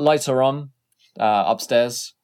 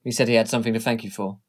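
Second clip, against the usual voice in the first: secretary voice; much faster than usual. Acted. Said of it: "She stops you ... and says".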